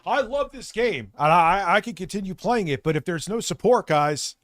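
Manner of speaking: hammed-up impression of Phil begging for support; mocking Phil. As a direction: parody his whiny bargaining. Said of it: "He always".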